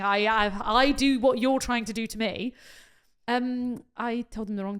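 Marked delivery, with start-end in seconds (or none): 0.0-2.5 retold outburst, loud and repetitive; insistent confrontation. Bride telling her team she knows what's happening, insistent. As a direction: hammer each 'I know' with force.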